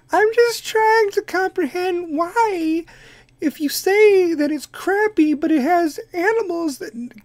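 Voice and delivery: high, slow put-on celebrity voice; Kim Kardashian voice. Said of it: "the Kardashian voices".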